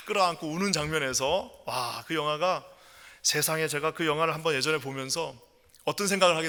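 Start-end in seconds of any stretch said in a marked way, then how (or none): none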